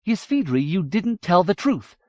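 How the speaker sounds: put-on young princess accusing the Dwaro; accusing young woman. A narrator's reading. Miriamel voiced high and accusing.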